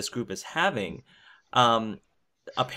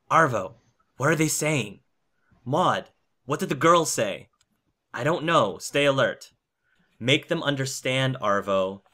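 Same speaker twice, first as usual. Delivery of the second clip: acted reading of a tense standoff, higher-pitched; reading dramatic dialogue; 3 semitones higher than usual. Host reads translated Russian dialogue to the podcast, lightly acted. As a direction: read the frightened group's lines with urgency. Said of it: "hard for me to talk without sort of using a Russian accent".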